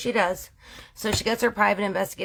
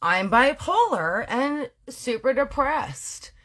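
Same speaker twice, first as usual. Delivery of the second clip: high excited gushing; 5 semitones higher than usual. Retold or imitated. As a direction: gush with excitement. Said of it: "she's, like, super excited".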